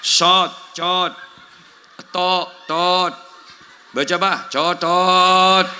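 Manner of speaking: Shot, cot, tok, tot said as short broken tries, ending in a drawn cotot; a student fumbling the sound; student's wrong letter. Retold or imitated. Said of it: "cot melu jok". (menirukan santri salah baca)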